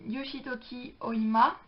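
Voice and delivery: slow, careful Japanese accent on the author's name; attempted Japanese accent. Real, not acted. Booktuber reading a manga author's name to viewers, in a self-conscious attempted Japanese accent. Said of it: "mon accent japonais tout pourri".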